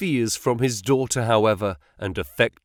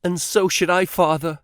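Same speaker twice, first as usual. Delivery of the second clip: higher, spirited daughter's voice; 7 semitones higher than usual. A narrator's reading. Daughter Lucy backing her father, spirited. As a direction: answer back boldly. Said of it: "she answered with spirit".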